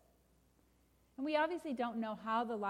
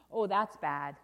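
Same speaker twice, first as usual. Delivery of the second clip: dismayed refrain; 2 semitones lower, 6 dB louder, slower than usual. Acted. Storyteller reacts to burst balloon, loud dismay. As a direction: lament the bad news heavily.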